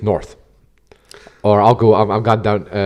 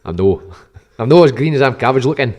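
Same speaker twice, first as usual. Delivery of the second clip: hammy attempt at Glaswegian; unconvincing Glasgow patter; bad Glasgow accent; 3 semitones higher, 3 dB louder than usual. Shown as a demonstration. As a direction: put on a poor Glasgow accent. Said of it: "That's a horrible Glasgow accent".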